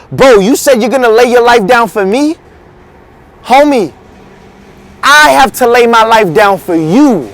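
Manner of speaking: baffled questioning of a friend, then correcting; mild incredulity. Acted. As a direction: throw the promise back in disbelief, leaning on "I". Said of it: "looks at him like he's".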